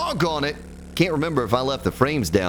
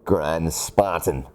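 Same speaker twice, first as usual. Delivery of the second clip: Darth Vader voice; 8 semitones lower, much slower than usual. Acted. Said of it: "Darth Vader".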